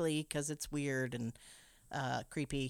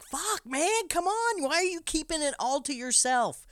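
high, loud frantic pleading; young keeper demanding to see the light, desperate and loud; 5 semitones higher, 4 dB louder than usual. Retold or imitated. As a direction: beg him loudly, voice up. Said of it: "young Thomas is like".

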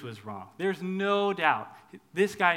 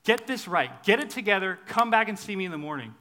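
louder, higher scolding orders; the God we don't have, stern and loud; stern demanding God; 3 semitones higher, 6 dB louder than usual. Retold or imitated. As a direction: bark it like a strict boss. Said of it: "we don't have a God who says".

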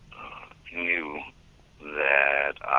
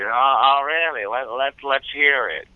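Hans Conried voice; 10 semitones higher, 4 dB louder than usual. Retold or imitated.

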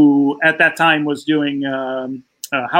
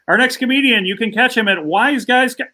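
raised, lightly voiced host announcement climbing higher; Dave's host intro; 5 semitones higher than usual. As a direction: announce him like a chat show host joking around. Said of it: "he goes".

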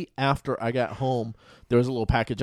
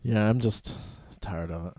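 dejected; 2 semitones lower, 5 dB quieter than usual. Real, not acted. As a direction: let it drop, worn out. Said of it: "You sound so, like, dejected".

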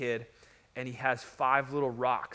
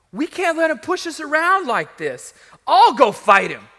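high, loud, building to a punch; volunteer boldly, voice raised; defiant outburst; 10 semitones higher, 12 dB louder than usual. Acted. Acts David volunteering to fight.

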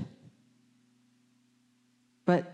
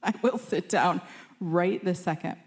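meek whisper; 2 semitones higher than usual. Retold or imitated. Student answering her teacher in a meek hushed voice. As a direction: whisper it back like a chastened student. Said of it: "I'm like".

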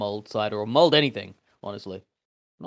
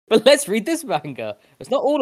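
laughing; 11 semitones higher, 5 dB louder than usual. Real, not acted. Laughing, excited redirect.

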